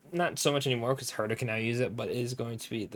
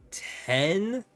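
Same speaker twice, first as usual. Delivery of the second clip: surprised; 9 semitones higher, 4 dB louder than usual. Real, not acted. Counting the relic sets.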